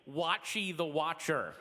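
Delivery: Watchy the Watcher, drawn out as it was heard; misheard name. Retold or imitated. Comic questioning a caller's words, misheard Watchy said slowly. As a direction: say Watchy slowly, with a clear "ee" ending. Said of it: "it sounds like you're saying".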